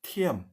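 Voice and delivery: "tiam" high and falling, with aspirated t; air from mouth. Shown as a demonstration. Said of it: "dari udara itu dari mulut ya".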